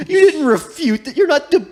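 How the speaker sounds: very high, squealed mock protest; comic outrage at the top of the voice; hammed-up indignant scolding; exasperated accusation. Acted quarrel with Atris.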